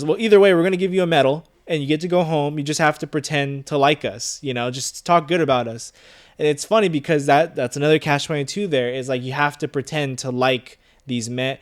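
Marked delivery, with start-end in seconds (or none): 0.0-5.9 high, loud offer fading to coaxing; smug colonel. Retold or imitated. Colonel bargains with Yossarian, high and loud then easing off. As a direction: sell the deal, then ease off. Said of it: "And he goes".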